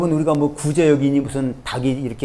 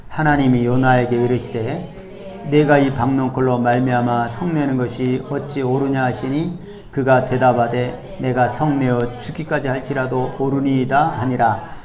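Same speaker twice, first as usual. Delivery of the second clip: slow, measured congregational Bible reading; scripture reading together; 3 semitones lower, slower than usual. Acted. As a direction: read the verses aloud in step with the congregation. 회중과 함께 성경 봉독. (회중과 함께 천천히 성경을 봉독하는 목소리)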